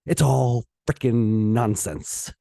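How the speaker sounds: slow down and vent in frustration; fed-up, emphatic venting; exasperated outburst. Real, not acted. Venting angrily against Marxism.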